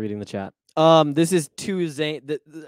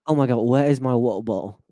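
put-on British accent; 4 dB louder, faster than usual. Continuing the British accent bit.

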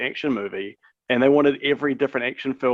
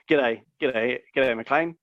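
put-on light Kiwi accent as a villain; hint of a New Zealand accent; much slower than usual. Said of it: "just a Kiwi accent".

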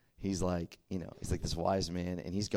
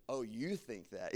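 sheepish mock retreat; 10 dB quieter, slower than usual. Kid deserted by friends.

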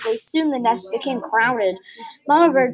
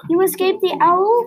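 higher, louder, disbelieving joy; excited cry; 7 semitones higher, 4 dB louder than usual. A narrator's reading. Stella Luna to her found mother, an excited cry. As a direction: cry it out in happy shock. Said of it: "cried Stella Luna".

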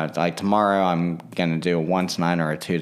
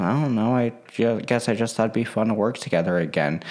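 higher, mildly sad mock voice; imitated sad voice; 4 semitones higher, faster than usual. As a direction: imitate a hurt friend, pitched up. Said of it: "in a sad voice".

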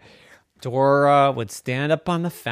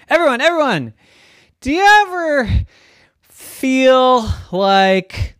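high, eager little pig calling her friends; Dora the pig voice; 10 semitones higher, 6 dB louder than usual. Acted. Pig Dora calling to her bored farm friends, high and eager. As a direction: squeal it out to get everyone's attention.

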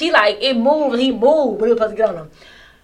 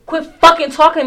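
calm but firm; 7 semitones higher, 9 dB louder than usual. Retold or imitated. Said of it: "He was like".

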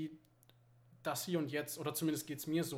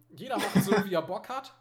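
laughing; 4 semitones higher, 5 dB louder than usual. Real, not acted. Laughing while explaining family habit.

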